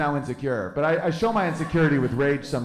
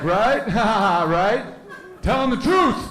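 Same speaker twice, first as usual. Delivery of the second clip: high, laughing, rowdy goading; rising to a high excited yell; mock gleeful egging-on; 6 semitones higher, 3 dB louder than usual. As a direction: whoop it like a joker seeking agreement. Racist joker egging him on.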